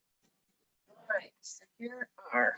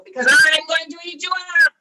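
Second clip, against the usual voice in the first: loud, raised-pitch troll threat; big menacing storybook bellow; troll's roar; 9 semitones higher, 13 dB louder than usual. A narrator's reading. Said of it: "roared the troll".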